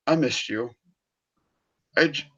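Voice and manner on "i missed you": tender. Retold or imitated. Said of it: "Tony embraced Peter by going".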